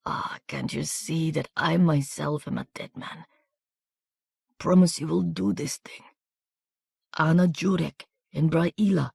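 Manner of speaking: wounded soldier begging Miranda to carry his papers; desperate weak plea. A narrator's reading. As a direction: beg while your strength fails.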